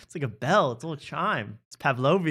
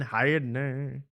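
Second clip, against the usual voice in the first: slow put-on New York greeting; light New York accent; much slower than usual. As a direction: drag out the New York catchphrase. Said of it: "a whole nother accent".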